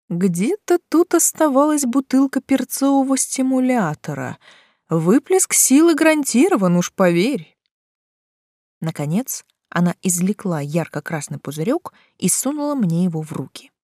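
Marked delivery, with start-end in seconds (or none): 0.1-7.6 muttering. Acted. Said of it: "бормоча".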